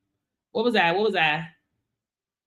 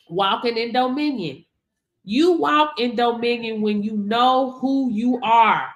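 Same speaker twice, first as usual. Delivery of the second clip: ordinary talk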